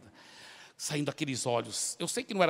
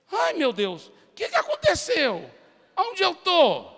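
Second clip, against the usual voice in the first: higher, louder, dazed voice; bewildered woman; 12 semitones higher, 6 dB louder, slower than usual. Retold or imitated. Freed woman asking where she is, higher confused voice. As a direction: sound confused, waking from a trance. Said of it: "eu ouvi a voz dela".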